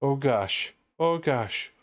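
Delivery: rising Minnesotan moans through a wall; breathy Minnesota "oh gosh"; Minnesotan accent. Pretend. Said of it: "you know what a, uh, Minnesotan prostitute sounds like through a wall?".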